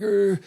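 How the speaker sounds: mock a confused little noise; imitated vacant grunt. Mom with Alzheimer's sits there, imitated vacant grunt. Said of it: "she's kinda like".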